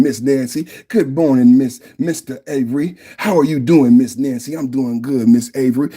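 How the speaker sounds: mock-genteel greeting, lightly voiced; a hint of a refined Southern neighbor; polite society voice. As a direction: play it prim and proper like polite company. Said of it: "That's how you say it in polite society".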